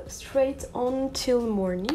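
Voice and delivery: Straight On Till Morning read slowly in a French accent; French-accented English. Real, not acted. Vlogger reading an English eyeshadow name, French accent. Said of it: "mon magnifique accent".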